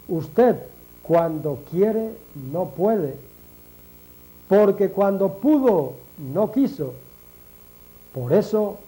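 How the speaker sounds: deliberate, phrase by phrase with long pauses; measured delivery, broken by pauses; slow repetition. Shown as a demonstration. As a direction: repeat it slowly, letting each phrase land. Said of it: "Lo digo despacio, se lo voy a repetir".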